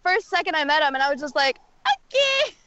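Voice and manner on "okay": stunned okay. Retold or imitated. Stunned reaction quoted.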